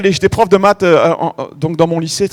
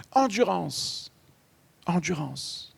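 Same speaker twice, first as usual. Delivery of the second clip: fading repetition; 3 semitones lower, 16 dB quieter, much slower than usual. Real, not acted. Répétition qui s'éteint.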